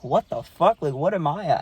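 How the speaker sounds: can't believe where he is; bewildered. Retold or imitated. Finds nobody beside him.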